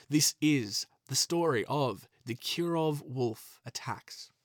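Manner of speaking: slow, ominous announcer read, trailing off to a whisper; slow ominous episode title, whisper the last word; dramatic title announcement. Acted. Host announcing the episode title to listeners, slow and ominous.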